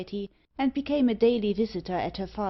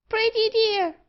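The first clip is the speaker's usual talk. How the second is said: much higher piercing bird squawk; screeching parrot; 14 semitones higher, 6 dB louder than usual. Acted. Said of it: "screamed Meg".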